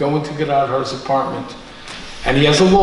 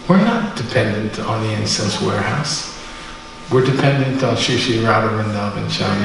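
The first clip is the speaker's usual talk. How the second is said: retold guru's gentle, lower-pitched correction; kind reassurance; 5 semitones lower than usual. Guru to distraught disciple after the fire, kind and sincere. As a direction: imitate a teacher kindly setting someone straight, voice dropped. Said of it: "he said it with such kindness".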